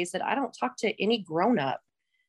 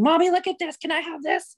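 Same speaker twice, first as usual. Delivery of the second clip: mock kids begging; 8 semitones higher than usual. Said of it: "eight hundred kids screaming".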